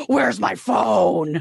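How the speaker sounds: low, creaky, rough natural voice. Imitating how she talks with her sister in the elevator: imitating Paris Hilton's low real voice. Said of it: "It's a very, very different voice".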